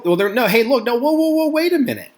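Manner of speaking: a pretend president's alarmed whoa, whoa, whoa; protesting whoa. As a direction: throw up your hands and stop them, climbing up. President waving off treason accusation.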